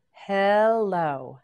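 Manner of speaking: Hectic stretched slowly, each sound held; slow drawn-out word. Shown as a demonstration. Teacher modelling Hectic for learners, slowly stretched. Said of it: "teacher models new word".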